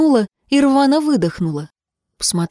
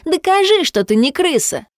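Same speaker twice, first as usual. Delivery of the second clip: shouting; 9 semitones higher than usual. Acted. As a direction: push her to jump at full voice. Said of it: "кричала она".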